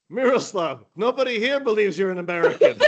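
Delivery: high-pitched comeback breaking into laughter; amused teasing retort. Retold or imitated. Bernie teasing Miroslav as retold, amused high retort. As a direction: deliver the punchline, laughing at the end. Acting out friend's teasing punchline.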